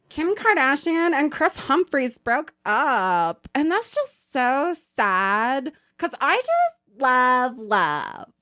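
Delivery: a hint of Fran Drescher sighing over celebrities; gossipy boss voice. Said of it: "she goes".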